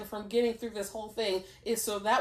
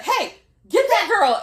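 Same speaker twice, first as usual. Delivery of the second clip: high, loud imitated shout; calling out; 9 semitones higher, 9 dB louder than usual. Rival to a teammate during the race, calling out. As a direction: shout the order across the field, playfully imitated.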